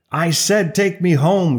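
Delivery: a moderate narrated shout; shouted demand. A narrator's reading. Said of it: "she shouted, blue-faced".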